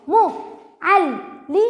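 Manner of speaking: مو عل لي split into separate beats; syllable by syllable. Shown as a demonstration. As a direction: read مو, عل, لي one beat each. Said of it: "الآن سأقوم بقراءتها محللة".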